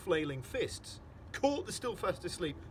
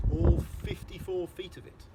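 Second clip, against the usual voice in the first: loud stress on all; booming emphasis; 4 semitones higher, 9 dB louder than usual. A narrator's reading. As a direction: boom out how huge he is. Narrator booms the size.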